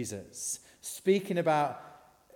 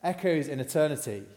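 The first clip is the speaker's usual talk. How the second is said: lightly acted film-hero line, louder; Maximus rallying troops; 5 dB louder than usual. Preacher finishing a Gladiator quote, mock-rousing. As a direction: ring it out like a modest battle cry. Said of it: "these lines to inspire his troops".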